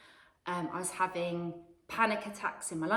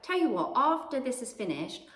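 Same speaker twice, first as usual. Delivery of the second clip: put-on higher, a light old lady voice; sweet old lady; 5 semitones higher than usual.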